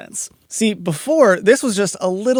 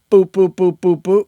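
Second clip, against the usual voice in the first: even boops; 2 semitones higher, 4 dB louder than usual. Shown as a demonstration. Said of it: "So not".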